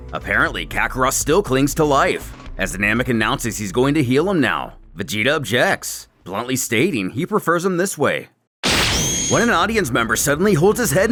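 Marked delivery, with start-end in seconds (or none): none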